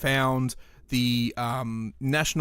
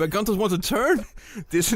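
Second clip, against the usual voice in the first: put-on higher, muddled German-Dutch accent; German accent gone Dutch; 6 semitones higher than usual. Podcaster attempting a Nazi voice, German accent slipping into Dutch. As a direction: let a bad German accent drift toward Dutch. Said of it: "it sounds Dutch now".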